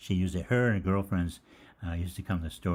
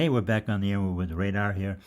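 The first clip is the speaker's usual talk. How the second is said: on-air announcer; 5 dB louder than usual. Retold or imitated. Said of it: "come back and say".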